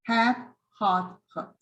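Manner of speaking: "Hat" spread, "hot" open, the last "hot" lax; three vowel demo. Shown as a demonstration. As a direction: model the three vowels for teachers. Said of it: "totally different".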